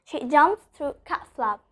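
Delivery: slow demo, T held back in "cat flap"; "cat flap" with the t swallowed before f; unreleased T. Shown as a demonstration. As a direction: stop the t in "cat flap" without releasing it. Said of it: "I'm not pronouncing the letter T".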